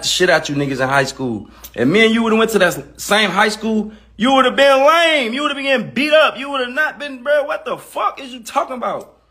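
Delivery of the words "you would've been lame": stretched, loud LAME; sneering slow "lame"; drawn-out lame. Real, not acted. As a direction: drag out "lame" with contempt. Ranting insult at rapper.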